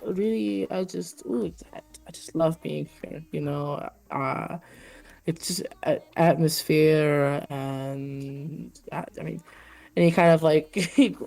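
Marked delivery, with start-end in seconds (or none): 0.0-9.4 lightly voiced lonely flirt; gushing Patrizio. Patrizio gushing to the Minotaur, lightly voiced dreamy gush. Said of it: "And Patrizio goes".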